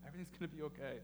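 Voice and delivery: gentle reassurance. Retold or imitated. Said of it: "I heard God saying to me".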